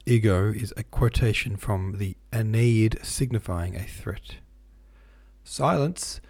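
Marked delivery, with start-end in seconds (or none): 5.4-6.2 high indignant snap. A narrator's reading. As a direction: demand silence indignantly. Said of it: "continued the master indignantly".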